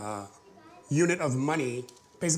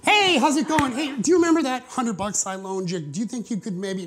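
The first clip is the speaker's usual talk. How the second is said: higher, sing-song fake friendliness; mock friendly; 5 semitones higher, 3 dB louder than usual. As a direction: pretend to be nice before the turn. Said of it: "That's like".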